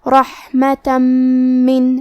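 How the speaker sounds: رحمتا من with the tanween merged into a doubled, humming م, very slow; idgham with ghunnah. Shown as a demonstration. Teacher demonstrating idgham bighunnah to students, slow nasal recitation. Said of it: "غنہ اور تشدید کے ساتھ ادا کریں گے".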